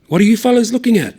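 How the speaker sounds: loud challenge to the pub crowd; defiant challenge. Acted. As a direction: challenge the room.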